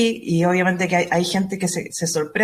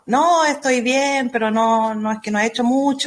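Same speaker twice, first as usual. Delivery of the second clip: mock sheepish excuse; 4 semitones higher than usual. Client answering the astrologer's follow-up call, mock sheepish excuse. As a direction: lightly imitate a client making excuses.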